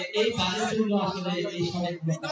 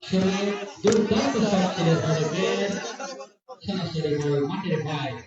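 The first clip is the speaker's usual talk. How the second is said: rapid live play-by-play; frantic football commentary; 3 semitones lower than usual. Real, not acted. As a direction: call the match as it unfolds.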